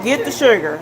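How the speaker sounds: laughing Southern "Get the sugar", "shugah". Retold or imitated. Mocking how Southerners talk, with a laugh. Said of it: "I'm talking about Southerners".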